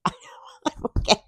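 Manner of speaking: I don't get it through breathy laughter; giggling disbelief; laughing. Real, not acted. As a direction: laugh it out helplessly. Repeated with laugh.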